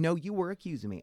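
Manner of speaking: high-pitched imitated accusation; indignant retort. Old man arguing back in the queue, imitated indignation.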